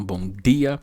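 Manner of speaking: DIA with a plain D; interior São Paulo hard D. Shown as a demonstration. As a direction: say BOM DIA without a J in DIA. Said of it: "tem algumas cidades que falam".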